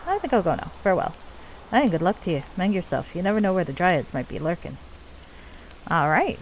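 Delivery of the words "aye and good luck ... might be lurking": put-on lightly done Scottish accent for a dwarf leader; bad Scottish accent. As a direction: play the dwarven chief with a rough-and-ready Scottish accent. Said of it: "Ain't doing that accent again".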